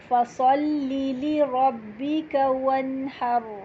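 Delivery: slow, melodic tajweed recitation of the verse; slow Quranic recitation. Shown as a demonstration. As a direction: recite the verse slowly with all the rules. (آہستہ تلاوت)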